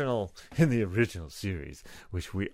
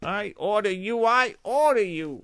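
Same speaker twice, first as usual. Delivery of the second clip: mock tyrant voice; 12 semitones higher, 4 dB louder than usual. Mocking the bossy brother.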